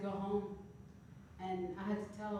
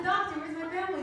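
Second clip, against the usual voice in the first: mock panic; 8 semitones higher, 5 dB louder than usual. Asking doctor in hospital.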